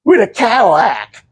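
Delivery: lightly acted wistful woman; dreamy clown lover. Wife wishing to marry a clown, lightly acted longing. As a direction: pine away as if wishing. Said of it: "She's like".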